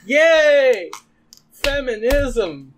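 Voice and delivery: loud, high mock celebration, slow at the end; fake-celebrate with biting irony; sarcastic cheer. Sarcastic cheer at abuse scene.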